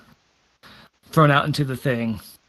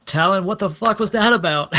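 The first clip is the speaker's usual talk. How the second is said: higher, through a laugh; laughing question; 5 semitones higher than usual. Acted. Jenkins asks Talon about the boy, laughing. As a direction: ask it while cracking up. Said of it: "And Jenkins just like".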